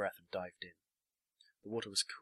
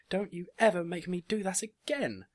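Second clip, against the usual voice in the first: high, loud scolding; tearful shout; 11 semitones higher, 9 dB louder than usual. A narrator's reading. Marzipan telling her dad off, tearful shout. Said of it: "she shouted at him, tears in her eyes".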